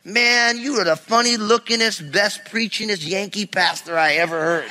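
imitated old-timer's southern twang; thick southern accent. Older man praising the Yankee pastor after service, thick southern accent. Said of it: "he had a real thick southern accent".

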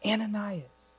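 soft, quiet calling of a name; tender call. Acted. The Lord calling Ananias by name, soft and tender. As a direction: call his name gently.

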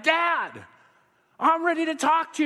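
put-on high, eager child's voice; a kid bursting to talk to dad; child asking father to listen, eager and high. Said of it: "you're like".

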